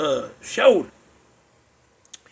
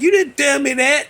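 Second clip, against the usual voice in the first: higher, louder acted disbelief; raised-voice mock protest; mock indignation; 7 semitones higher, 5 dB louder than usual. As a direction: imitate a buddy calling you out. Buddy's indignant reaction acted out.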